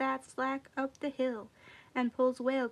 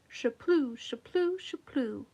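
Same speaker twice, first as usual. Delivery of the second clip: spluttering laugh. A narrator's reading. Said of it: "Whale laughs till he splutters".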